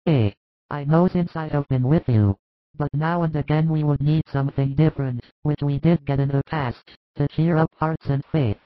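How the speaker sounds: a worried disciple confiding, hushed; James, troubled disciple. A narrator's reading. James confiding his worry to Jesus, hushed and troubled.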